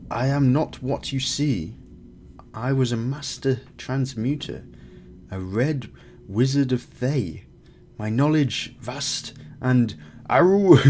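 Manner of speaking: weary ex-wizard creature, halting phrases; lightly voiced cave creature. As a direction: speak as a strange, broken-syntax creature. Voices the creature Sabik Tan.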